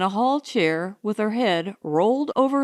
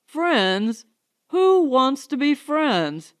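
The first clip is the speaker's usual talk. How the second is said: reckless; 4 semitones higher, slower than usual. Acted. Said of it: "His voice was suddenly reckless".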